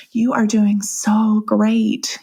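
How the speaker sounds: slow, soothing reassurance; calm her down gently, slowly; calm doula. Retold or imitated. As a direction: doula soothing a mother in labor, calmly. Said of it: "she's real calm".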